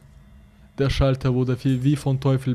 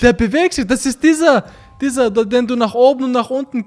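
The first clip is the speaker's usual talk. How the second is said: excited; 10 semitones higher, 7 dB louder than usual. Real, not acted. Excitedly explaining the switch.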